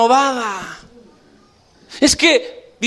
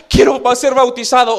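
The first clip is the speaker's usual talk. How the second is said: fervent shout. Acted. Crowd weeps, begs baptism.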